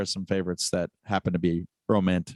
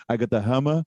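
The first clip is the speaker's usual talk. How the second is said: lightly put-on Austrian action-star voice; Arnold impression. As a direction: deliver it as a mock Austrian boast. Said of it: "me talking like him".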